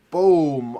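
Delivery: loud, booming "boom"; imitated crash. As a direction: hit it like a sudden heavy impact. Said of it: "so the sound is just".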